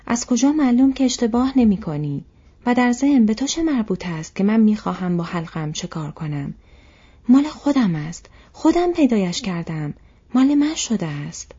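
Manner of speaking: loud, high-pitched indignant outburst; angry shout. A narrator's reading. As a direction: cry out in defiance, claiming what is yours. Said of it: "فریاد زد".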